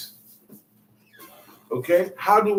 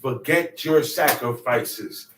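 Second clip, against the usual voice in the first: weary God; 5 semitones lower than usual. Retold or imitated. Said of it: "I said".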